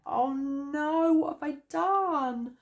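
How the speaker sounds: high, loud panicked voice; sudden panic, voice shooting up; scared. A narrator's reading. Bear, seeing the swarm, cries out in high panic. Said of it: "Bear was so scared".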